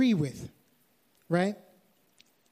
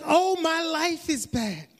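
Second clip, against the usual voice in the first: mock moaning of a self-pitying Christian; 8 semitones higher than usual. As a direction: mimic a complaining believer feeling sorry for himself. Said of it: "You'll be like".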